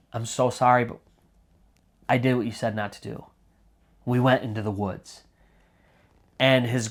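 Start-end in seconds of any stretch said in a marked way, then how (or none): 0.1-5.2 low, soft, halting confession; choked up. Retold or imitated. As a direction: haltingly voice a boy caught in the throat. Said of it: "he's almost choking on his words".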